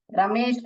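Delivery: रमेश with a short first vowel, ra-mesh; रमेश without the long "raa"; wrong pronunciation. Shown as a demonstration. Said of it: "करके नहीं पढ़ने का".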